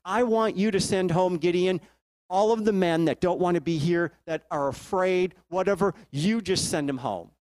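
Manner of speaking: lightly voiced God correcting Gideon; God speaking. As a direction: call out to Gideon like a buddy. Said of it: "God taps him on the shoulder and goes".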